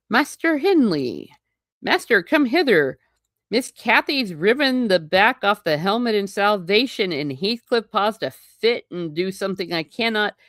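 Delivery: hammed-up tattling to the master; mock tattling servant. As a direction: call for the master in mock alarm. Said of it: "he's saying these kids are evil".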